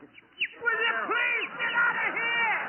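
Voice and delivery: slow, high exasperated plea; plead, fed up. Acted. Exasperated at sound man.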